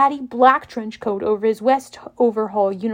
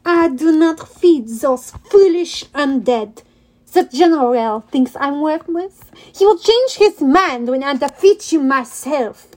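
sneering; 3 semitones higher, 3 dB louder than usual. Acted. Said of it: "He sneered".

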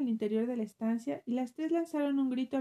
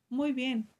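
roaring grunting brute. Acted. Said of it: "rezongó el esposo".

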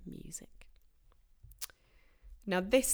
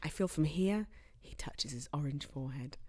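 hammed-up celebrity quote; 3 semitones lower than usual. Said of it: "he says that to the interviewer".

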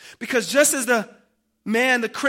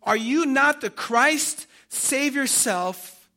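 raised, slow taunting challenge; railing; 4 semitones higher, 4 dB louder, slower than usual. Acted. Criminal hanging beside Jesus, railing at him. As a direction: rail at him with drawn-out words. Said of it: "they railed at him".

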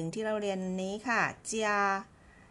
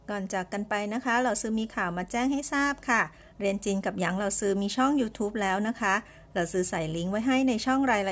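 louder, bright announcing; upbeat announcement; 4 dB louder than usual. Real, not acted. Host announcing the new YouTube channel, excited. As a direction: sell the news with energy.

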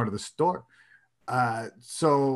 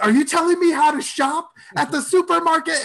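much higher, louder, outraged disbelief; incredulous rage; 14 semitones higher, 4 dB louder than usual. Retold or imitated. Scolded shopper, seething at being told how to shop. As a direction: bristle at being lectured on shopping. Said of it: "I am a roiling cauldron of rage".

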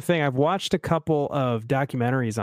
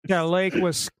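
mock Chicago small talk; put-on Chicago accent; 2 semitones higher than usual. Shown as a demonstration. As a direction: chat like a Chicago local. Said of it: "has the best Chicago accent".

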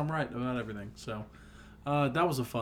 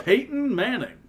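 sports announcer voice; 9 semitones higher, 4 dB louder than usual. Shown as a demonstration. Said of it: "I sound like an announcer".

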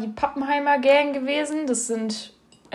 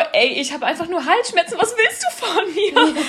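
annoyed retort; 5 semitones higher than usual. Retold or imitated. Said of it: "Und ich meinte so".

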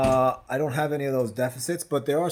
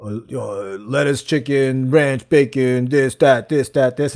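mumbled rattled-off list; 4 dB louder, much slower than usual. Retold or imitated. Fast-talking salad guy retold.

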